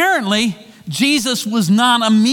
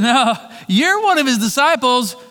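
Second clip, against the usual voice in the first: pressing accusation; 5 semitones higher than usual. Retold or imitated. Crowd accuses Peter.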